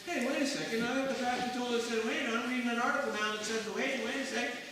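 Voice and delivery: confused reader. Retold or imitated. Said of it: "you'll find".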